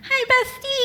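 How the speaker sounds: high squealed hello; excited greeting. Real, not acted. Fan greeting Sheriff Eli from the audience, excited. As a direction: call out to a favorite, pitch leaping up.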